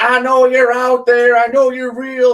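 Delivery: hammed-up crazy hermit yelling; mock Crazy Carl. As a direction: shout it like a paranoid hermit. Quoting Crazy Carl shouting.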